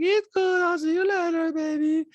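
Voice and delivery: high, eerily detached farewell; Diana. Retold or imitated. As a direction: brush them off in a creepy monotone. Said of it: "And Diana's like".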